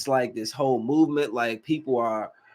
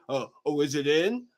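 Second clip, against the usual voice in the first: scared unsure lover; 3 semitones lower, 5 dB quieter than usual. Retold or imitated. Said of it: "all scared and unsure".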